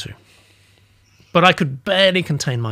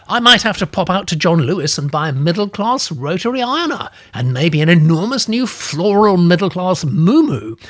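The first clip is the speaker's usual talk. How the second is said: put-on old lady gushing, higher and louder; 5 semitones higher, 4 dB louder than usual. Old lady planning middle-class shopping, gushing and higher. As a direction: revel in the shopping list. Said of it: "she was becoming animated".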